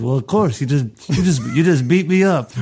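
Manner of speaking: lightly voiced mock Brando, rising; a hint of Brando in Johnny's protest. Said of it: "is he doing a Brando voice too".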